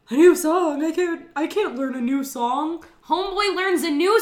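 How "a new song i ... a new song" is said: a louder, incredulous protest; exasperated disbelief. Retold or imitated. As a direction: protest like the task is impossible. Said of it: "Troy is like".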